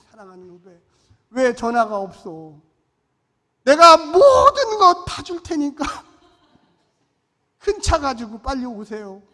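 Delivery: overly sweet, then a loud, slow, laughing offer; butter him up though you don't mean it; fake-warm call to the junior pastor; forced friendliness. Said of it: "사랑 안 하는데 또 말은 또 해야지".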